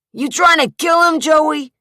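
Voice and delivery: high, loud bark. Acted. Rudy barks at Joey, high loud bark. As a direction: bark it at your partner. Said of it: "Rudy barked".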